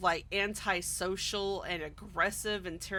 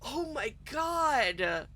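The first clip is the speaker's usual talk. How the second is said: exasperated oh my god; 4 semitones higher, much slower than usual. Retold or imitated. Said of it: "I'm just like".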